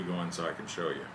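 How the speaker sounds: talking around pipe stem; pipe in mouth. Real, not acted. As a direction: lips clenched on pipe. Seen 2: Pipe held away first, clenched in mouth from 1.2s onward.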